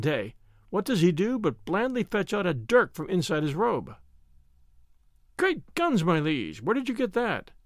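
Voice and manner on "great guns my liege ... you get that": startled cry at the dagger; mild shocked alarm; shocked exclamation. Acted.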